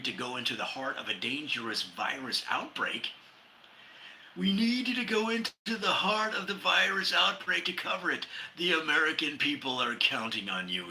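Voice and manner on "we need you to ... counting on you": lightly voiced urgent producer, higher; a producer pushing the anchor, a touch higher. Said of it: "says the producer".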